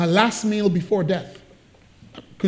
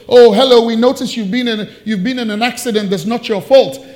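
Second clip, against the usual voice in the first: loud sing-song salesy greeting; chirpy telemarketer patter; mock cold caller; 2 semitones higher, 6 dB louder than usual. Pastor's claims-company caller, chirpy salesy. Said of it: "somebody called him".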